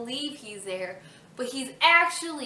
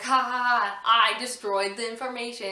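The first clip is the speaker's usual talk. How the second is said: hammed-up gloating laugh; imitating a gloating villain; mock villain laugh; 5 dB louder than usual. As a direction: cackle it out like a smug villain. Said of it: "all laughing, like".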